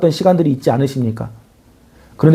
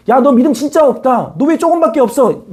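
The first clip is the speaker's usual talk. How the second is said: mock scolding Jesus; 6 semitones higher than usual. Voices Jesus scolding, hypothetical.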